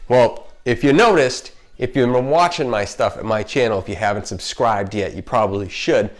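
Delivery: slight lisp with retainers in; talking with retainers in. Real, not acted. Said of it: "I might have a little bit of a lisp because I have my retainers in".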